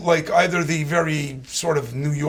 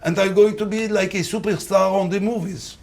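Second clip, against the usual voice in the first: mixed French and Arabic accent; a French-tinged Arabic accent. Shown as a demonstration. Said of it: "sort of French and, uh, Arabic".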